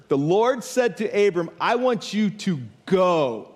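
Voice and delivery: "go" drawn out slowly at the end; stress on go. Shown as a demonstration. Preacher emphasizing God's command to Abram, long stressed "go". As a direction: lean on "go", stretching it long. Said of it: "I'm gonna emphasize that first word".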